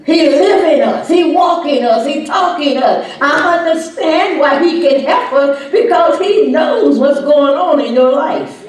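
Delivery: high, loud, ringing preacher's cry; full-force preaching. Acted. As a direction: preach it out, rising and pounding. Preaching climax again.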